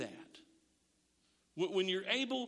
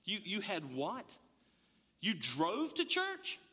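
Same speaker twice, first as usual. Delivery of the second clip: incredulous; 4 semitones higher than usual. Retold or imitated. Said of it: "be like".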